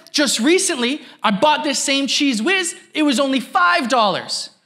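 imitating the shopper. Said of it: "He said".

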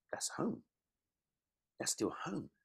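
squeaky, breathless disbelief; high-pitched amazement. Retold or imitated. Comic arriving in his hometown, voice shooting up high. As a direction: pitch way up in delighted surprise. Quoting his own reaction.

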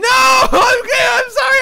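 high, loud apology shout; loud high sorry; yelled apology. Real, not acted. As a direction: call out sorry across the game. Apologising after being caught cheating.

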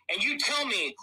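loud, indignant challenge; angry challenge. Real, not acted. Host attacking the guest's products, loud and angry. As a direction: raise your voice and demand an answer.

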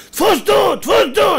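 high, loud yell at the film; shouting at the screen. Retold or imitated. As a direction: cheer the hero on at full voice. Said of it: "אתה צועק לו".

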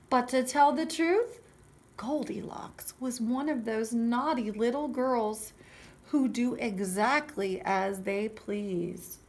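animated storybook narration; story reading for children. A narrator's reading. Teacher reading Goldilocks to children, animated storytelling. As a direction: read it out clearly to little listeners.

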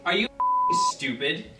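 angry shout. Acted. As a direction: yell it in disgust. Ranting at imagined student.

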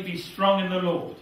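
normal talking voice

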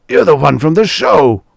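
high, loud startled cry; shocked recognition. Acted. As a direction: blurt it out in shock. Producer recognizes intruder.

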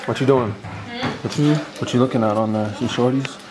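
a hint of a mock street voice ribbing the boy; playful teasing dad voice. Teasing a kid about his phone.

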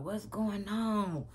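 slow, sleepy mumble; just woken up, drowsy; half asleep. Retold or imitated. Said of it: "He half asleep".

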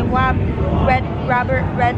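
"Wob, Red, Robert" with R as a W sound; "Red" said as Wed, R becoming W; says w for r. Shown as a demonstration. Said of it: "I can't say my R's".

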